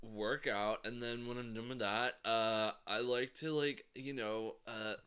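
mock straight bro. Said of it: "stupid straight white men who are like".

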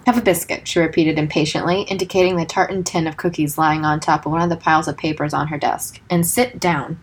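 reading a novel aloud; steady storyteller read; story narration. A narrator's reading. Reads book passage aloud.

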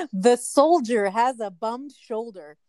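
slow careful whisper. Shown as a demonstration. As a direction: whisper it slowly, word by word. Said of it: "Say it again".

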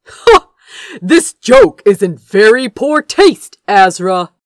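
loud, high scoff, then curt disapproval; scoffing, short. A narrator's reading. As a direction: scoff and dismiss it curtly. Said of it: "he said shortly".

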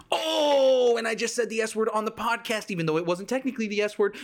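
long high wail of dismay; high, whiny self-reproach. Real, not acted. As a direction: cry out as you catch your own slip. Realises he said forbidden word.

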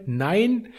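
ordinary talk

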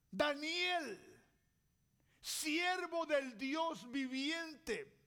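a calling out in slow, sad despair; a king calling into the pit, mildly grieving; sorrowful cry. Acted. King calls to Daniel in the lions' pit, sad slow cry. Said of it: "desesperado le gritaba, pero con gritos de tristeza".

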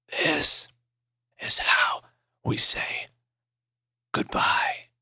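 slow unvoiced rasp; dying whisper. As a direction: whisper slowly, each breath an effort. Dying man whispers farewell.

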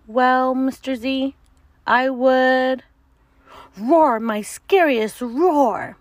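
loud, proud little monster; gurgling swamp creature. Acted. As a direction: boast about your roar.

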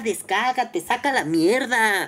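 imagined crude reply spelled out slowly; inner rant. Retold or imitated. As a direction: let the insults drag out sarcastically. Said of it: "Y yo por dentro así de".

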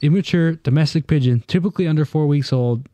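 even, measured read-aloud voice. Real, not acted. Host explains pigeon race timing to friends, reading aloud. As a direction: read it out like an encyclopedia entry. Reads out a definition.

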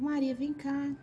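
mãe chamando. Retold or imitated. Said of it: "Um exemplo".

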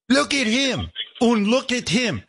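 very high-pitched mimicked squeal over him; imitated high, drawn-out fussing; mock gushing. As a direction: coo at him in a put-on high voice.

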